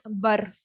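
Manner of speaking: bar as 'burr', the R sounded; wrong R ending. Shown as a demonstration. Teacher shows the wrong ending bar, R pronounced. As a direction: say bar with an audible final R. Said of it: "So it's not bar".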